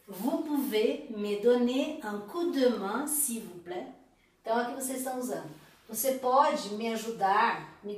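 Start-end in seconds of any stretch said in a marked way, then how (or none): 0.1-3.9 slowed, careful French question; slow model question. Shown as a demonstration. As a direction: model it slowly for learners. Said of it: "Encore une fois". (pergunta modelo, devagar)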